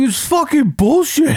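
high-pitched mock screaming outburst; retold scream. Son imitating his angry dad on the phone bill row, screaming. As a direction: imitate him screaming in outrage. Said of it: "You keep screaming at me like that".

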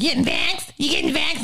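lightly voiced nosy friend; mock nagging. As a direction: imitate people pestering about the vax. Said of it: "people are like".

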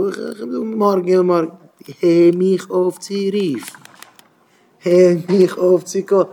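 acted brush-off. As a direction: tell a nag to stop calling. Acts brushing off a nagging caller. (געשפילטער אומגעדולדיגער אפזאג)

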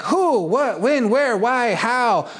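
mimicking a detail-hungry analytical type; curious detail seeker. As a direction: fire off questions like an anxious planner. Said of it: "They're like".

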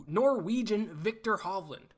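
hammed-up Norwegian accent on the name; bad Norwegian accent. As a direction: try a Norwegian accent and miss. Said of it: "That was the worst Nor-, Norwegian accent of all time".

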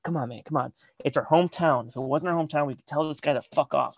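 softly pleading bandmate; peacekeeper. Retold or imitated. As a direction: talk him down quietly, imitating a bandmate. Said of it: "trying to be the peacekeeper".

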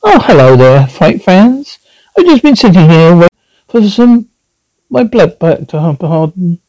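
a hint of a creepy horror host greeting; lightly creepy showman welcome; ghoulish host. Horror host greets the fight fans, lightly spooky.

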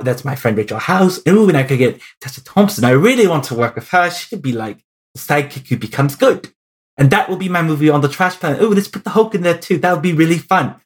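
badly faked New Zealand accent; keen, rambling pitch in mock New Zealand accent. Director listing friends to cast, in a bad New Zealand accent. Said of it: "That's my really bad New Zealand accent".

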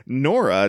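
NORA set apart as if in quotation marks; air-quote inflection. Shown as a demonstration. Co-host reading the recap doubts the name, air-quote inflection. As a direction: put audible air quotes round NORA. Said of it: "weird inflection in my voice".

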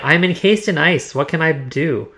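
a lightly voiced hopeless hero; mildly hammed despair; mock defeated. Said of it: "He's very defeated".

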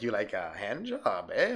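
slow, low, hushed creepy offer; creepy proposition. Retold or imitated. Driver propositions the teen, slow low creep. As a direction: lean in and ask it slowly and low. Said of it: "he's like".

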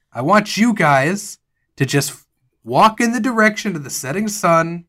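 bossy sheriff. Acted. Rossi breaks up conversation.

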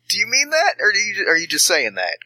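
hopeful, pitch jumping up; eager hopeful. Acted. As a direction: beg to hear it's true. Fishing for praise.

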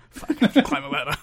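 hammed-up Dusty gripe; grumbling Dusty. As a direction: rattle it off like a put-upon old wrestler. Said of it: "he's like".

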